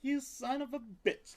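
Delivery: high squeaky teasing cry; high mock-insult to a pet; playful pet squeal. Real, not acted. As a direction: squeal it at the cat in mock outrage.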